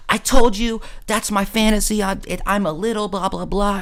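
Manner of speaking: imitating her sulking; mock girl voice. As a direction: pitch it up like a sulky girl. Quoting her indignant reply.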